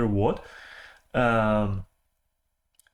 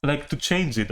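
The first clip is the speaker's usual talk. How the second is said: talking with a mouthful; words round a mouthful of food; mouth full; 2 semitones higher than usual. Real, not acted. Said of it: "stuffed mouth voice".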